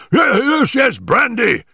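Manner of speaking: high, stammering frantic cry; urgent cry. A narrator's reading. Stackhurst demands brandy for his stricken companion, crying out frantically. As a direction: cry out urgently, tripping on the first word. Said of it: "he cried".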